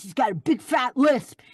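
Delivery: lightly imitating a thick New York accent; Ralph Bakshi's New York accent. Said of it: "He talks like this".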